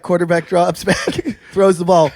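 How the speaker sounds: loud mock football commentary; mock play-by-play. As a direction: call the play like a sportscaster.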